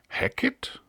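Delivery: a startled, slowed double take on the name; Hackett? whispered high, then Sam Hackett? drawn out in surprise; astonished. A narrator's reading. Wembury hears a known burglar named, astonished. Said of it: "fragte Wembury erstaunt".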